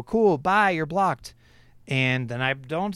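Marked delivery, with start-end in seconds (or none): 0.0-1.3 higher, breezy brush-off; mock-cheerful goodbye; breezy dismissal. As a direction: toss it off like waving someone away. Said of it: "And I go".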